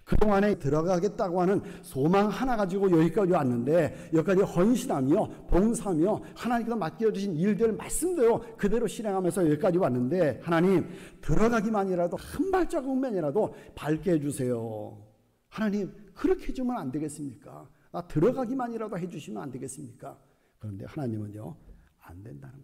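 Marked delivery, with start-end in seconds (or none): 0.0-15.0 higher-pitched imploring of God, in Moses' role; acted desperate plea. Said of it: "아마 그런 마음을 가졌을 거예요". 15.5-20.2 restrained begging in Moses' role; a humble request to God; acted plea. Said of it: "아마 그런 마음을 가졌을 거예요".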